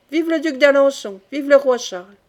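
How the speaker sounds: lightly voiced shouting crowd; crowd cheering. A narrator's reading. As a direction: cheer it out like a rally. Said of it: "crièrent vingt voix".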